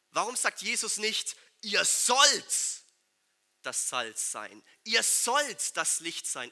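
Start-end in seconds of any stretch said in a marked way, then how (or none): 1.6-6.5 mock command, ihr sollt pushed louder. Shown as a demonstration. Preacher contrasting a command with seid. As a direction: say it as an order. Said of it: "in so einem Befehl".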